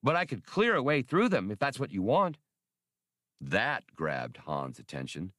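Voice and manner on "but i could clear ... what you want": high, lilting little machine; Max, offering help. Acted. Small computer offers a way through, high and eager.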